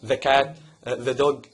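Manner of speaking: "the" said as tha before cat and dog; short tha sound in "the cat" and "the dog"; the as tha before consonant. Shown as a demonstration. Teacher showing the before a consonant. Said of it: "ذا لو جاي وراها حرف كونسونانت".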